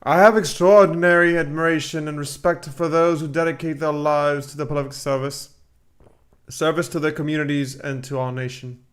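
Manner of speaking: slightly put-on British accent. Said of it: "I'm doing a British accent".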